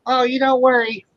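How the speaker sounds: high mock old lady voice, fussing over a single guy. Teasing the single guy at a wedding, high mock auntie voice. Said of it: "them old fucking women".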